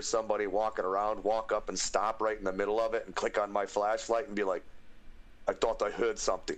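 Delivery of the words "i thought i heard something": game guard with a put-on accent; puzzled sentry on patrol; accented video-game watchman; Skyrim guard. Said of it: "with the Skyrim guard".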